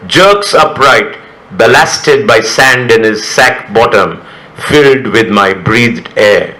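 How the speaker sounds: measured, deliberate poetry recital; poem reading. Acted. Poet reading a poem about an inflatable punching toy, measured recital.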